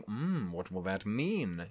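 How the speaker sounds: slow, quiet musing hum; mock pondering. Reacting to an indecisive king, slow quiet musing.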